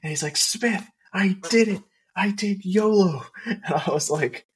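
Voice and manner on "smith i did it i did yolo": so excited. Retold or imitated. Guard running in to tell Smith, excitedly high-pitched. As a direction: burst out proud of a new trick. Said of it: "so excited".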